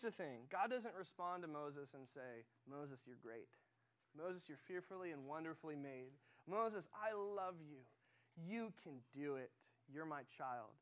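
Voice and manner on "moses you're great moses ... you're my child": slow, gently voiced mock reassurance; puffing him up. Imagined God flatters a doubting Moses, puffing him up. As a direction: imitate an encouraging pep talk, unhurried. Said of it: "puffing him up".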